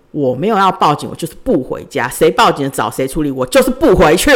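retold loud refusal, building to the end; firmly insist, voice rising on 我就是不回去; loud reply. Telling the family loudly she won't come home. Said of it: "我只好大声回答他们说".

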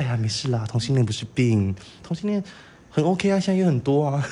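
soft, soothing reassurance, imitated; gentle sergeant. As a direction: play a sergeant comforting a recruit. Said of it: "他很温柔欸". (模仿士官长温柔安慰)

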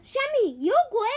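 high, loud startled what; shocked. Acted. Hippo hears grandpa shout about a ghost, shocked cry. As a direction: gasp out the question in shock.

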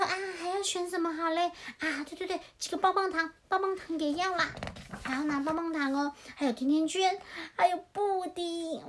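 lightly voiced greedy chick; excited little chick. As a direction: pick out treats like a delighted chick. Voices greedy chick choosing sweets.

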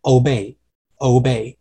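OBEY the British way, without the added glide; British pronunciation. Shown as a demonstration. Teacher contrasting British with American, British-style obey. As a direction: say obey as a British speaker would. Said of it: "如果说今天你是英式的话".

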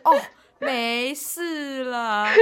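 a hint of a stubborn old grandpa, very slow and drawn out. Teasing her friend by mimicking a stubborn grandpa, drawn out. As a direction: brush it off slowly like an old man who won't see a doctor. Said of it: "很像那种顽固的老阿公".

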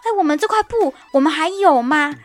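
hammed-up fuss over the fabric; mock flustered demand. Manager pestering the fabric staff, mock flustered. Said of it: "他跑去跟布料说".

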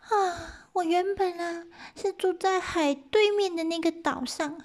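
high, small rabbit voice; little rabbit voice. Acted. Rabbit explains to the eighty gods in a high voice. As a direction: speak up as the tiny rabbit. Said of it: "就回他们说".

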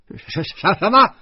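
stutter, then explode in disbelief; shocked. A narrator's reading. Husband hearing his son will be taken, shocked. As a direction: stammer bursting into a high shout.

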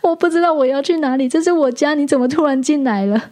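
a tiny startled gecko, flustered and lost; small cute creature voice, stammering in alarm; cute panicked gecko. Pretend. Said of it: "那个声音很可爱".

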